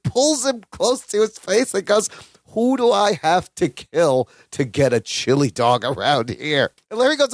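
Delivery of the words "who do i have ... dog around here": lower-pitched imitation of a big tough guy; lightly voiced low threat; retold menacing customer. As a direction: lean on him with a low mock threat. Big angry customer grabs Larry.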